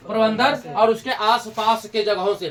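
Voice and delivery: slowed down, every word laid out for notes; slow dictation. Shown as a demonstration. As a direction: dictate it slowly so they can write. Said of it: "repeated for students to note". (धीरे-धीरे, लिखवाने के अंदाज़ में)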